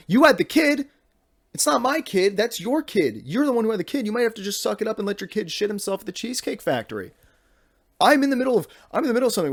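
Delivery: put-on teen protesting from inside the stall, high and exasperated; indignant protest. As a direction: pitch it up like a put-upon teen. Retold argument with dad in stall.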